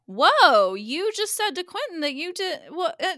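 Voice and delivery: high, loud mock disbelief; high-pitched baffled protest; flabbergasted objection. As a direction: burst out confused and sputter off. Acted viewer objects to contradiction.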